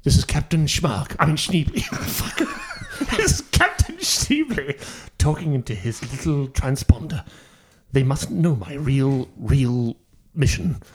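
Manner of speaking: hushed aside to audience; conspiratorial aside. Acted. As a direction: confide in the audience. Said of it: "doing an aside to the audience".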